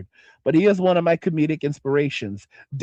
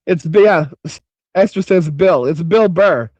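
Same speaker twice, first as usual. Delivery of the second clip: much louder, triumphant shout of the name; excited outburst; 7 dB louder than usual. Real, not acted. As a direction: blurt it out with relief, finally remembering. Chat finally names the comedian.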